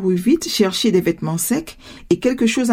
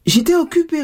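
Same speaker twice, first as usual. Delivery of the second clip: put-on high, innocent little-girl excuse; 7 semitones higher than usual. A narrator's reading. Daughter excuses herself to her mother, innocently. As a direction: play innocent, voice pitched up. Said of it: "répondit Jeannette d'un air innocent".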